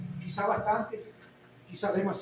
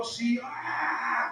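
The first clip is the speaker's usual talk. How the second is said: monster roar; 4 dB quieter, much slower than usual. Retold or imitated. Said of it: "Como un monstruo".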